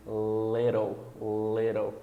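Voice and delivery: little drawn out, T tapped like a Brazilian R; flapped T. Shown as a demonstration. Teacher gives an example, little slow with a flapped T. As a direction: linger on the L of little, then tap. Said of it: "como o som do R brasileiro".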